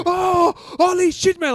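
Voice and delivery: put-on high, loud, slow Indian accent; amazed shout in an Indian accent. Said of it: "Indian guy impression".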